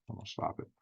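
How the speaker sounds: under-the-breath aside while stopping the clip; hushed whisper. Real, not acted. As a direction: whisper it to yourself. Muttering while fiddling with video.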